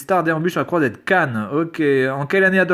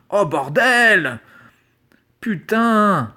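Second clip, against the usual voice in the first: slow drawn-out oh bordel, then a higher putain; can't believe how easy this is; exasperated disbelief; 4 semitones higher, much slower than usual. Real, not acted. Vlogger reacts to absurdly easy spelling question, exasperated disbelief.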